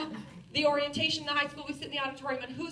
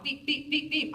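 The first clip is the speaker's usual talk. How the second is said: beeping alarm. Retold or imitated. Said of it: "There's my compare button going off".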